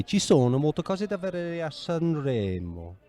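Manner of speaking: Ci sono molte cose da vedere a Sanremo spoken slowly, Italian vowels clear; slow Italian example. Shown as a demonstration. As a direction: give the example sentence slowly to a beginner. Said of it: "So you might say".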